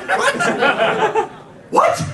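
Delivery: very high, laughing disbelief; incredulous what. Real, not acted. Speaker reacts to the Viking's fluent English, very high and incredulous. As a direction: shoot the voice way up in disbelief.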